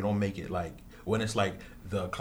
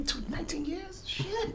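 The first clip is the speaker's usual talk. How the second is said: high, laughing disbelief; a stunned, rising laugh; surprised; 6 dB quieter than usual. Real, not acted. Shocked by how long it's been.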